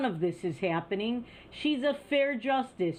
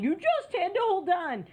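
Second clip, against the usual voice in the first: mild mock yell; 9 semitones higher than usual. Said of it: "screaming and yelling people saying".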